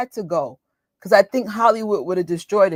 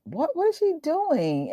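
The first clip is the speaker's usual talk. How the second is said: higher, softer disbelief; baffled question; 8 semitones higher, 4 dB quieter than usual. Retold or imitated. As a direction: ask in disbelief. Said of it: "I'm like".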